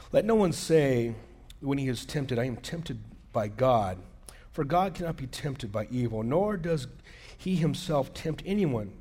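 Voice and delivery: scripture reading. Acted. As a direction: read the verse out deliberately. Reads scripture aloud.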